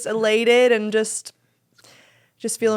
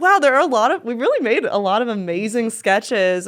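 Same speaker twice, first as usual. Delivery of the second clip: amazed; 3 semitones higher, 3 dB louder than usual. Retold or imitated. Quoting own amazement.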